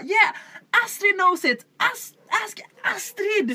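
high, loud hyped cheer; excited cheering. Retold or imitated. Teammates cheering Astrid on, excited hype. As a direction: hype her up like a crowd. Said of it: "de peppade mig".

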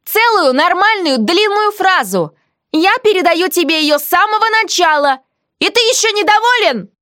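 mild mock outrage; indignant heroine. A narrator's reading. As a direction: stress how much she gives. Heroine defends herself.

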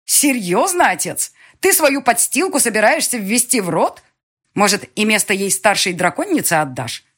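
loud, high, spitting contempt at father; venomous sneer. Acted. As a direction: spit the words like venom. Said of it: "чуть ли не плевалась ядовитой слюной".

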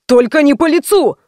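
mild mock yell of the beaten host. A narrator's reading. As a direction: cry it out doubled over. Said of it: "заорал".

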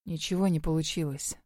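low, soft, strangled voice. A narrator's reading. Werewolf lover warning her, low and strangled. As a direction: choke the words out, held back. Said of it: "сдавленно произнёс он".

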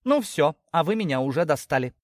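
high-pitched, exasperated snap; fed up. Acted. Daughter fed up with her parents, exasperated. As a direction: declare you've had enough, pitched high.

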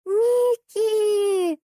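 piercing high shriek of a name; girl squealing the name. A narrator's reading. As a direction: shriek with joy like a little girl. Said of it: "девочка завизжала так".

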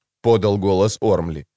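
usual speaking voice

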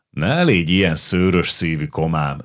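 officer calms his comrade, gently soothing. Acted. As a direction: settle down a hot-headed friend. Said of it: "csitította Csupor".

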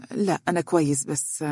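unsure, letting the words fade; hesitant. Acted. Faris hiding bad news from Dunya, hesitant and fading. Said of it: "قال بتردد".

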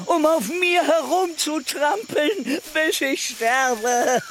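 bitter rant. Acted. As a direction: spit out the grievance, slowing at the end. Cornelius ranting about Jim. (verbittert, am Ende langsam)

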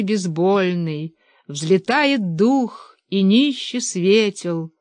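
slow, solemn verse reading; poem recital. Acted. Narrator closing the book with a verse: slow solemn recital. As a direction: let each line float up slowly.

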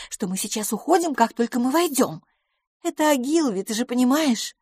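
a flustered lady planning an evening; Miss Lafos voice. A narrator's reading. (мисс Лафос, выше, суетливо)

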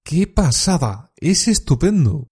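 congratulating a friend who made the Olympics; excited congratulations. Shown as a demonstration. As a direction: celebrate a friend's big news. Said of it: "Tú le contestas".

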